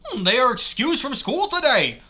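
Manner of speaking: high, loud cartoon mouse; Mickey Mouse. Character explains friends' absence from school, cartoon mouse voice. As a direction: answer as a chirpy cartoon mascot. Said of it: "read that in a Mickey Mouse voice".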